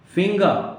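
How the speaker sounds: "फिंगर" ending in an open "-gaa"; "फिंगर" said as "fing-gaa"; silent R. Shown as a demonstration. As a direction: drop the final R of "फिंगर". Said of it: "फिंगर नहीं".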